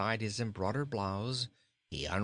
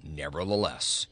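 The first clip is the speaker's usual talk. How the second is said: convinced goat; 7 semitones lower, 4 dB louder than usual. A narrator's reading. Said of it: "said Bilbil with conviction".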